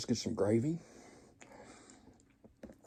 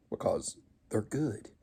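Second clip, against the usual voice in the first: softer, slow whispered confession; whispered aside that canned biscuits are good; 6 dB quieter, slower than usual. Real, not acted. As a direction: drop to a secret whisper.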